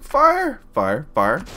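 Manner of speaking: high, loud yelp of an order; high-pitched panicky game shout; urgent command. Pretend. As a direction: shout it sky-high in a sudden rush. Urgent engine ignition in game.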